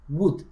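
"Wood" with no L, a plain oo sound; "Wood" said crisply for the student; clean wood. Shown as a demonstration. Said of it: "lo voy a pronunciar solo como W U D".

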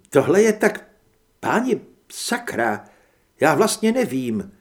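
lost for words, overwhelmed; flustered amazement. Acted. Heather stunned by werewolf news.

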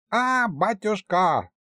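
high, slow, excited cry of батюшка; excited call. Acted. Elka bursting into the hall calling the king, excited.

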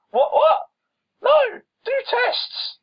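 shrill, high-pitched mock yell, slowing on do tests; a patient mockingly losing it at the doctor; mock outraged patient. Patient shouting at doctor over a lazy diagnosis, high mock yell.

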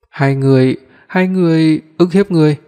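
mildly acted weeping; tearful complaint. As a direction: play her sobbing out the accusation, lightly. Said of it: "vừa ôm mặt vừa khóc lóc".

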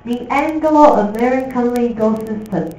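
慢慢清楚地念Anglo-American; 示范朗读，逐字念清楚; careful slow reading. Shown as a demonstration. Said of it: "这是英美法啊". (老师示范，慢速清晰朗读)

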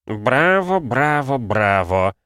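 high, sneering applause in voice; a villain's ironic bravo; mocking bravo. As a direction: clap her on with mock praise. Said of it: "похлопал в ладоши Ксарберус".

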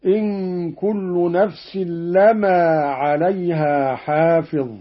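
لما recited "lama" with a single light mim. Shown as a demonstration. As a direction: say لما without doubling the mim. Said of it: "قرأ قالون بتخفيف الميم هكذا".

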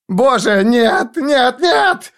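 rising, desperate cry of no; terrified scream. Acted. Forrest shrieking at Foyle in panic, terrified scream. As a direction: scream it out in terror, voice cracking high. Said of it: "Форест страшно закричал".

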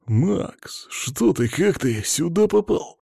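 dazed, stumbling hamster question; babbling. A narrator's reading. Stunned hamster asks how his friend got here, babbling. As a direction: falter in amazement, drawing out the end. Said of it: "лепетал Хамки".

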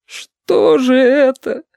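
very slow, high, crying; tearful exclamation. A narrator's reading. Yurik cries out to his rescuer, very slow, high and tearful. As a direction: wail it out in tears. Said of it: "плачуще воскликнул Юрик".

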